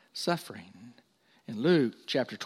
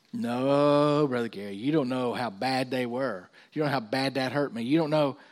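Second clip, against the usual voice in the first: acted-out complaint to the preacher; mock protest. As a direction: imitate an aggrieved church member pleading. Acts out a member's protest.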